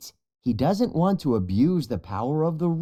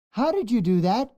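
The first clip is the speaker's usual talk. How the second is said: amazed question; 10 semitones higher, faster than usual. A narrator's reading. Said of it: "Bunga asks".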